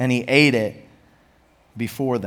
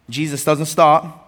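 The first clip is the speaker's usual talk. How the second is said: ordinary talk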